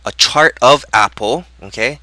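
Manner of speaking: groggy, tripping over words; fumbling and stammering. Real, not acted. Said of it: "Holy moly, I can't even speak".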